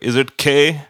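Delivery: imitated Indian accent, questioning lift at the end. Indian customer service woman checks a letter, imitated Indian accent. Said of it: "with the accent".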